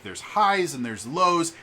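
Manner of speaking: high on highs, dropping down on lows; expressive highs and lows. Shown as a demonstration. Streamer showing what an expressive voice is like, swinging pitch. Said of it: "what a really expressive".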